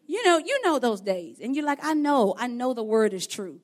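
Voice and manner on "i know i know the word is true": raised, louder acted protest; acted exasperated insistence; insistent protest. Voices a hurting believer's protest.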